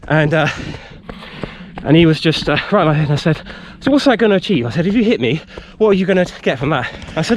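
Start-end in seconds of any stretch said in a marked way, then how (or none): 3.8-6.9 reasoning under adrenaline. Retold or imitated. Confronting the aggressive man.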